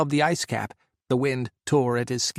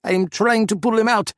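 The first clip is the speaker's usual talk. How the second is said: loud, higher strained shout; yelled; 9 semitones higher, 6 dB louder than usual. A narrator's reading. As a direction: yell it back from the cockpit. Sasha yelling back under fire.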